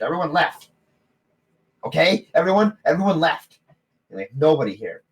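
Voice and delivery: high, loud exasperated gnome; gnome couple. Acted. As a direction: complain that everyone left. Gnome couple argue shops.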